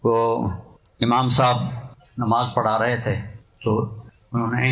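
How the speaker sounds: ordinary delivery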